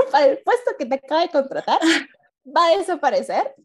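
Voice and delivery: outraged echo of the HR message; incredulous repeat. Real, not acted. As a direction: spit the words back in shock.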